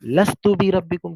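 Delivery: quoting God's question. Retold or imitated. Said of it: "अल्लाह पाक ने किया था".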